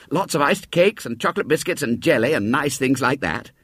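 put-on boyish voice selling a treat; tempting boy. Boy tempting William with a tea, lightly voiced. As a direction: dangle the feast before him.

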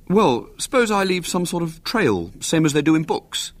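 a lightly voiced boy, vague; musing half to himself. A narrator's reading. William vaguely suggesting a trail to his aunt. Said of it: "then said vaguely".

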